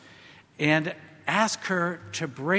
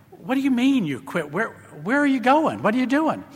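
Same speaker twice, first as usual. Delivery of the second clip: higher, pressing questions, mildly acted; retold astonishment; 7 semitones higher, 3 dB louder than usual. Priest pressing the woman on where she is going, astonished. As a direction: retell how he pushed her for answers.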